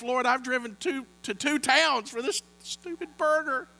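mock frustrated prayer; frustrated inner prayer. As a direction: complain to the Lord about a burger. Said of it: "I'm battling in myself".

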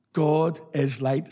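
God is light spoken slowly, each word weighted; preacher leads the congregation, slow and deliberate; slow emphatic. Shown as a demonstration. Preacher leads the congregation in call and response, slowly and deliberately. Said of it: "Say that with me".

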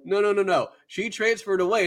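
high-pitched mock protest; worked-up retold denial; acted insistence. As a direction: imitate someone frantically insisting. Kyon insisting, acted argument.

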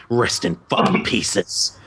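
slow, flat dismissal after a sigh; deadpan mom. Retold or imitated. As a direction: say it coldly, unbothered. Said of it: "and she's like".

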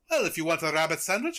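lightly attempted, not very good French accent; cartoonish mock French accent; Bugs Bunny's French accent. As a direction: try a rough French accent. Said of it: "he does this French accent".

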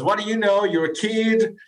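lightly voiced sceptical owner; scoffing boss. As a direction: brush off the young upstart, imitating the boss. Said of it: "He goes".

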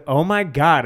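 imitated Brit doing an American accent; mock American accent. Retelling how they all started, mock American accent. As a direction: put on a stock American accent. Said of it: "do an American accent".

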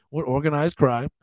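chuckling through the words; laughing. Real, not acted. Joking that old Nick Costas had mob ties, laughing. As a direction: laugh as you say it.

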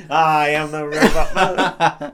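slow, drawn-out mock robot; robot impression. Listener echoing the robot taxi driver, slow and mechanical. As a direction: spell it out slowly like a robot.

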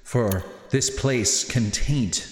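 slow, measured, solemn pronouncement; unhurried character voice with weighty pauses; Natius. Acted. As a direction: speak slowly and deliberately, like a grave quest-giver. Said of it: "He looks back at you and says".

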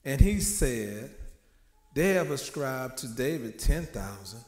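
slow, emphatic preacher's Bible reading; scripture reading. Acted. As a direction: declaim the verse slowly, weighting key words. Reads scripture aloud to congregation.

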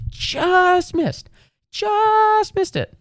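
very high, slow singsong; hammed-up high whine; mocking falsetto. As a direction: drag it out in a squeaky mock voice. Mocking the tour line.

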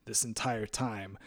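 quiet self-mocking disbelief; sheepish disbelief. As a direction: mutter it to yourself, embarrassed. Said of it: "you find it and you're like".

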